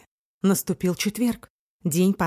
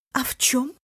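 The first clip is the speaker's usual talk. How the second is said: whispered; 6 semitones higher than usual. A narrator's reading. Fearful question.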